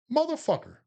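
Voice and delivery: high, stretched-out indignant cry; mock outrage. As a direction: act betrayed by your buddy, pitch leaping up. Tricked into gay bar, outraged.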